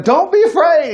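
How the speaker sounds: high reassuring call; calm the frightened men; assuring. A narrator's reading. Jesus reassuring terrified disciples, high and kind. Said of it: "assuring them".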